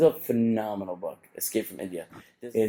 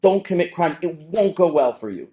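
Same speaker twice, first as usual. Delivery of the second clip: emphatic warning; 6 semitones higher, 3 dB louder than usual. Retold or imitated.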